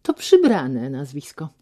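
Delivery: copying his loud manner; mild mock imitation of a loud man; mimicking his voice. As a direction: parrot his tone back at him. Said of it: "naśladując jego głos i minę".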